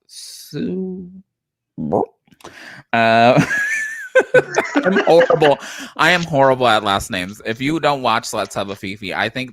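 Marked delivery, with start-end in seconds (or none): 0.1-5.6 embarrassed giggle over a botched name; laughing. Real, not acted. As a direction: laugh through the admission.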